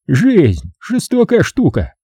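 slow, smirking remark; slow smirk at life. Acted. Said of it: "хмыкнул Эдгар".

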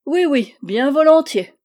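high, loud, delighted yes; eager acceptance. Acted. Old man accepting a beard cut, eager. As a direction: jump at the offer as a little old man.

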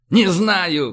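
high, loud outburst; shouting. A narrator's reading. Admiral with no answer for Andrew, shouting. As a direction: cry it out in desperation. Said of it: "крикнул адмирал".

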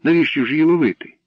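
put-on high, loud girlish plea; exclaimed objection; crying out. A narrator's reading. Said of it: "скрикнула вона".

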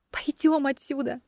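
barely voiced, soft plea; just mouth it, very soft; mouthing the words. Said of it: "попросила я одними губами". (одними губами, едва слышно)

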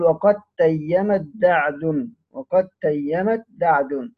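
slow "وقد تيمت دعد", the د of وقد merged into ت; idgham in recited verse. Shown as a demonstration. Teacher quoting the proof verse, "وقد تيمت دعد" slowly with merged letters. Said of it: "يعني الدال في التاء من تيمت".

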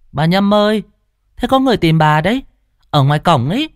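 high, calling across the yard. Acted. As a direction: call out to the old woman, quick. Girl calling out. (gọi to, giọng cao)

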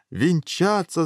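high, urgent call; hurrying command. A narrator's reading. King hurrying the couple to marry, urgent. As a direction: rush them along with a high call. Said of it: "заторопился король".

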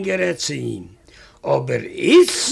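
hushed whisper. Retold or imitated. Husband telling his wife a secret, whispered. Confiding aside about the thief.

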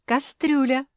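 high, loud cry with a laugh in it. A narrator's reading. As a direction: blurt the word through laughter. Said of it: "засмеялась хозяйка мопсхауса".

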